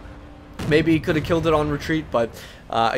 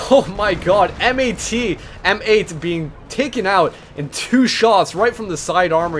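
startled play-by-play outburst, higher at first; excited reaction; 3 semitones higher, 3 dB louder than usual. Real, not acted. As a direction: react to a sudden tank kill. Tank suddenly destroyed on screen.

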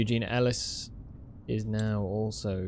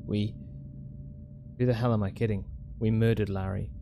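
faster, steady note reading; reading a note aloud; 4 semitones lower, much faster than usual. Acted. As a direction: read the diary note out, brisk. Reads the in-game note aloud.

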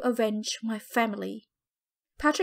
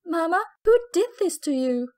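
anguished cry, higher and louder; 6 semitones higher, 4 dB louder than usual. Acted. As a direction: cry out to her dying mother. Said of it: "I cried".

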